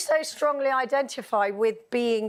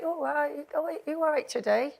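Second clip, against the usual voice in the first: put-on Oxford country accent; 4 semitones higher, 3 dB quieter than usual. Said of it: "they talk a bit like that".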